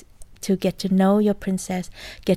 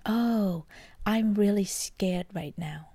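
simply noticing; 5 dB quieter, slower than usual. Pretend. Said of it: "simply see ourselves as is".

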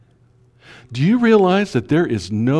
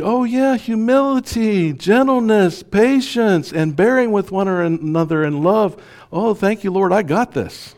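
much higher, breezy self-satisfied listing; mock smug; 9 semitones higher than usual. Pastor mocks a reader who thinks he has got this, smug and much higher. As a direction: rattle off the virtues like they're easy. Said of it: "It's so easy to read".

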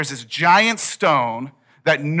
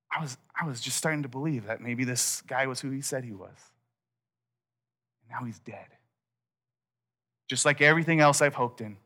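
despairing disciple; 3 semitones lower, 6 dB quieter, faster than usual. Acted. Disciples' imagined despair, very quiet.

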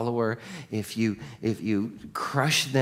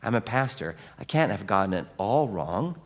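flustered Pharisee; 4 semitones lower than usual. Retold or imitated. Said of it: "And the Pharisee's like".

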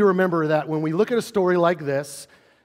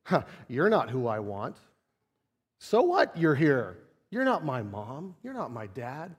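put-on sulky child; 3 semitones lower, 3 dB quieter than usual. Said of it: "what's the kid gonna do?".

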